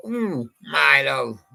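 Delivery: a slow, drawn-out "Ooh, my love", lightly imitated; the singer's way. DJ showing how the singer sang it, a slow mild croon. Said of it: that the singer went like this.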